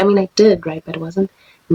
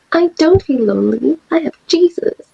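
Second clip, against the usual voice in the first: voice pushed very high; 10 semitones higher, 3 dB louder than usual. Repeating what she answered when asked a question: high-pitched voice imitating her. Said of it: "I always make that voice just because she, she always had a high pitched, well, she has a high pitched voice".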